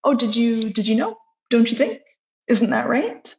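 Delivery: tentatively checking the listener agrees; unsure, seeking feedback. Shown as a demonstration. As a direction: fish for approval with rising little questions. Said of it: "you sort of don't know how the person's gonna respond".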